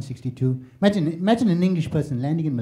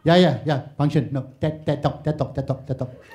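Malaysian phone chatter. Retold or imitated. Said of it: "Malaysians were on the phone going".

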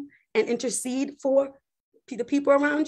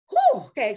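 relieved exhale; 4 semitones higher, 4 dB louder than usual. Acted. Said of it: "so Abraham exhaled".

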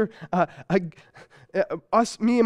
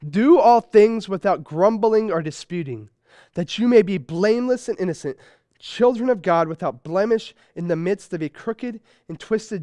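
scripture reading. Acted. Pastor reading Paul's letter to the congregation, declaiming. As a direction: read the passage out as holy text. Reads scripture passage aloud.

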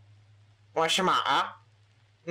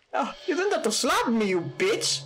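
playful mock British swearing; British accent, cheeky and rough. British Mario voice continues.

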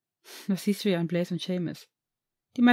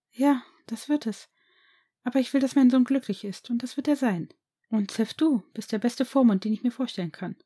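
higher voice, a touch of tears and a smile; tearful mother; 4 semitones higher than usual. Acted. Mother wiping tears, promising her son happiness, lightly tearful. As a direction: brave mother, moved but smiling.

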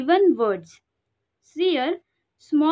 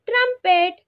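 raised teaching voice; 6 semitones higher than usual. Shown as a demonstration. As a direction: trumpet said high and drawn out. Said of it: "sound of elephant is called".

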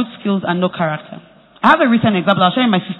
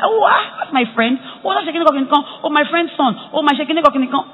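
excited recognition; 6 semitones higher than usual. Retold or imitated. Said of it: "I'm like".

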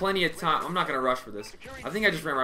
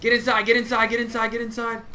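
raised, urgent repeated calls; urgent calling; 5 semitones higher, 4 dB louder than usual. Real, not acted. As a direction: hurry them in, loud and pressing. Urging teammates in game.

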